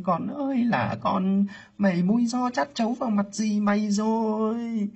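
high, loud grieving cry to the dead; wailing lament. Acted. Aunt crying out to her dead sister, wailing lament. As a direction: call out in despair to the lost sister.

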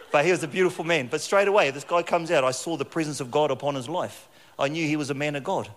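loud, high excitement; excited. Real, not acted. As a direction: burst out with delight. Excited about meeting pastor.

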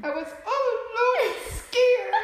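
high, loud, laughing through gritted teeth; through clenched teeth. Retold or imitated. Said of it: "Through clenched teeth".

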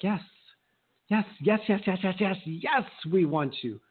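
high-pitched, eager clients giving in at last; eager yes. Acted. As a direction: pile up the yeses like a won-over client. Acting out clients finally saying yes.

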